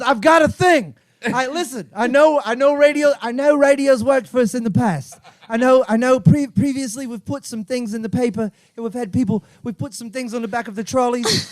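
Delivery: lightly acted English office pitch; a hint of earnest English staffer; English employee pitching. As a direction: plead your case to the board, mildly English. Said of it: "He goes".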